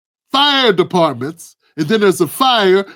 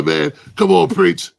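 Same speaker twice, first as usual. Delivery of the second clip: a hint of a lower old man's voice from the block; Crab's voice; 3 semitones lower than usual. Old guy Crab advising the young narrator, lightly voiced lower. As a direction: lean down low like the old head on the corner. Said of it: "'Cause he talk like this".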